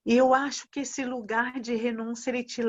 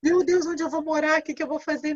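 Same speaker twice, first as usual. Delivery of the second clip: mock panicked prayer; 4 semitones higher than usual. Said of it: "esse tipo de oração".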